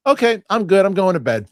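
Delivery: put-on high, loud teen voice quitting the movie; chirpy imitation of the daughter saying she's done; daughter bailing out. Father imitating daughter leaving the scary movie, high and loud. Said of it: "She goes".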